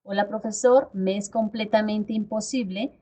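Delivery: firm and direct, leaning on "imposible"; assertive request. Shown as a demonstration. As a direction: state it plainly, stress "imposible". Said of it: "recalcar la palabra imposible". (petición firme y directa, recalcando "imposible")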